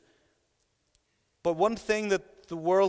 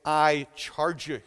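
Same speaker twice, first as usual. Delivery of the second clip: slow, measured charge; grave and deliberate; solemn, authoritative charge; slower than usual. Acted. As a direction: say it slowly, as a serious personal command. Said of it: "look at you in the eyes and say".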